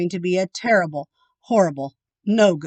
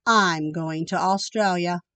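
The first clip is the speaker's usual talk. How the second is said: glum declaration; 2 semitones lower than usual. Acted. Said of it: "I said".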